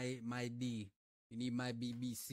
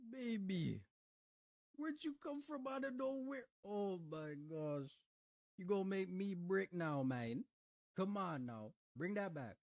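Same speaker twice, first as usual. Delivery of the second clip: playful pickup line, pitched way up; flirty call-out; 6 semitones higher than usual. Real, not acted. Streamer calls out to a woman in the clip, high and flirty.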